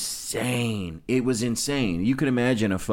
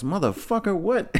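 very high, squeaky mock disbelief; incredulous comeback; 12 semitones higher than usual. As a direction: imitate his shock, voice shooting way up. Retells dealer's shocked comeback to question.

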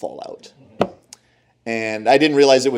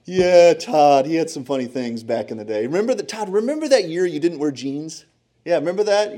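teasing mom voice; 4 semitones higher than usual. Retold or imitated. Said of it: "my mom would be like".

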